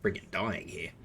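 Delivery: rough strained throat; fighting a failing voice; losing voice. Real, not acted. Streamer struggling with a sore throat, hoarse. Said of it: "clear my throat".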